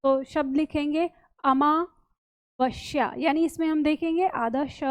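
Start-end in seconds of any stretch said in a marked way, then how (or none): 0.0-3.1 slow, even dictation of अमावस्या; teacher dictating slowly. Shown as a demonstration. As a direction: read it out slowly as if students are writing. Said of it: "इस तरह से हम रखेंगे".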